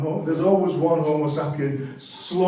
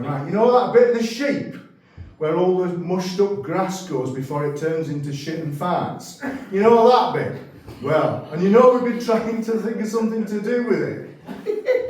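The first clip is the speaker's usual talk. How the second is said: mock middle manager pitch. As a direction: play a keen manager pitching a dumb idea. Middle managers voiced in a bit.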